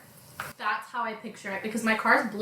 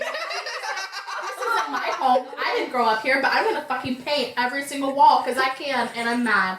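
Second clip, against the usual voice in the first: mock defiance; 2 semitones higher, 4 dB louder than usual. Acting out the character's defiant rant.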